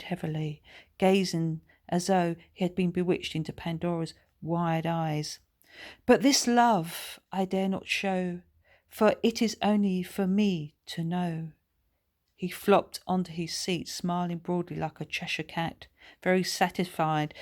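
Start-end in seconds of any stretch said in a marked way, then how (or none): 6.0-11.5 recited love poem. A narrator's reading. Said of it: "he recited".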